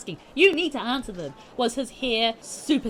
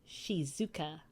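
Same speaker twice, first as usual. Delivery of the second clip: lower, softer, slow teacher voice; melodious teacher; 4 semitones lower, 5 dB quieter than usual. Acted. Teacher introduces herself to class, slow soft melodious voice. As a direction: introduce yourself calmly, slowly. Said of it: "melodious voice".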